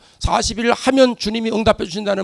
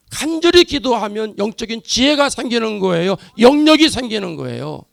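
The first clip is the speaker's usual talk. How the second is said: loud, rising sermon cadence; fervent preaching; 3 dB louder than usual. Acted. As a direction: proclaim it to the whole church. Preaching climax over congregation.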